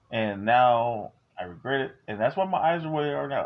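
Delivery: ordinary talk, nothing marked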